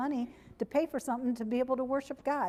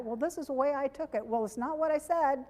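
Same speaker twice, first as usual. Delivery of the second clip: mock argument; 5 semitones higher than usual. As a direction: bicker back defensively, a bit heated. Retold spouse quarrel.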